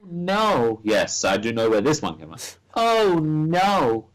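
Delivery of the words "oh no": little girl imitation. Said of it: "what kind of little girl sounds like that?".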